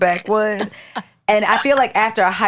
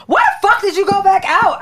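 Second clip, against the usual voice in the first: higher, louder disbelieving question; incredulous; 11 semitones higher, 4 dB louder than usual. Retold or imitated. Friend retelling her shocked question at six am, incredulous. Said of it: "I said".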